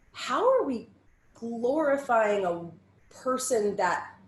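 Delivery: high, loud, slow indignant outburst; outraged. Retold or imitated. Judge at dance moms taping, outraged and loud. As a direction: demand it in disbelief. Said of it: "and I'm like".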